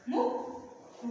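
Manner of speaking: ముక్కు said very slowly with a held క్క; slow demo. Shown as a demonstration. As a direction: stretch ముక్కు to show the double క. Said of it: "అర్థమైంది కదా?".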